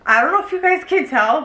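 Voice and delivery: laughing through it. Real, not acted. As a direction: giggle while talking. Laughing after crying.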